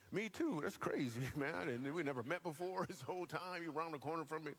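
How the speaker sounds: giddy delight at a supposed coincidence; mock excited recognition. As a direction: gush as if meeting someone from home. Mock delight at shared hometown with Bible.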